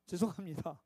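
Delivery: low, soft and sheepish sorry; meek apology. Shown as a demonstration. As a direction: mumble the apology like a scolded child. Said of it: "그러면 백성들이 뭐라고 해야 돼요?".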